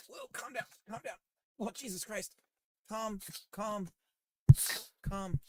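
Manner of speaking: high-pitched soothing coo at a dog; high pet voice. Real, not acted. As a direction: coo to an excited puppy. Calming an excited pug.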